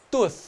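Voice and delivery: Tooth with the th sounded at the end; Tooth, tongue between the teeth for the th; th pronounced. Shown as a demonstration. Teacher showing how to sound the th in Tooth. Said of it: "o T H sempre tem que ser falado".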